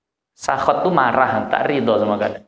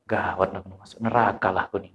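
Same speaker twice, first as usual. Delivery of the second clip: mock panicked hush; 9 semitones lower, 8 dB quieter than usual. Imitating panicked sinner.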